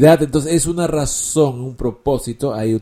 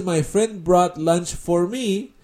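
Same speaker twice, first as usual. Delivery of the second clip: slow teaching demo; 4 semitones higher, slower than usual. Shown as a demonstration. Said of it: "Pero si tú dices".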